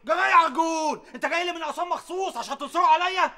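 angry shout. Acted. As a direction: shout him down. Quarrel, accusing the other man.

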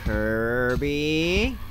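low, drawn-out questioning call; tentative call. Real, not acted. Calling again, lower.

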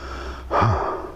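long breathy sigh out, acted; settling sigh. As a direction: let out a breath as if sinking into the body. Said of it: "She'd just sink into her body".

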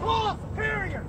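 high slow shouted demand; shouting. Real, not acted. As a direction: yell it, drawn out. Shouting demand, second angle.

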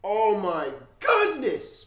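real grief. Real, not acted. Grieving on camera after unboxing the shirt. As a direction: stretch it out in pain.

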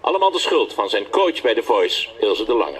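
licht aangezette voice-over van een portret. A narrator's reading. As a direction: lees het voor als commentaar bij een filmpje. (voice-over voor een muzikaal portret)

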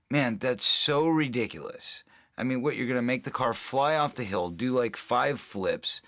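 retold disbelief, pitched slightly up; incredulous. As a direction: scoff at an absurd stunt plan, leaning on key words. Retells disbelief at proposed car stunt.

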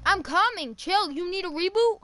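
loud, high "I'm coming, chill"; exasperated shout. Real, not acted. Teammate shouts back at impatient friend, annoyed and loud. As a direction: yell it back, annoyed and hurried. Urgent revive in gunfight.

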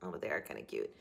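surprised gushing. Retold or imitated. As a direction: admit it grudgingly, charmed. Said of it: "I go".

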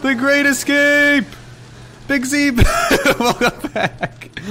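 loud high laughter after a close escape; laughing triumphantly. Real, not acted. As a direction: cheer through the laughter. Escaped the monster, celebrating.

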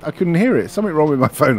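lightly acted bewildered complaint; complaining co-worker. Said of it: "he was like".

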